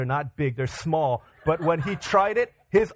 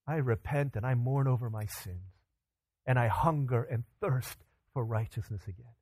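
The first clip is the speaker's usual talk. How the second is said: prayerful confession. Acted. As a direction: pray it humbly, as if to God. Voices a prayer of repentance.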